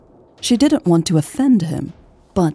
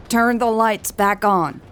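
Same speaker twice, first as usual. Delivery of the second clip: higher, sharp angry order; angry demand; 4 semitones higher than usual. Acted. Hobbs yelling at the rebels' car, angry. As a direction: bark it at the car. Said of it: "Hobbs's angry voice".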